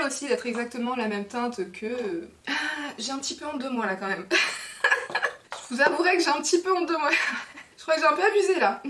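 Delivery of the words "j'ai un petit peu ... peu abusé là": giggling through embarrassed confession; laughing. Real, not acted. Vlogger laughing at her own big haul, giggling. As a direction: laugh it out, caught red-handed.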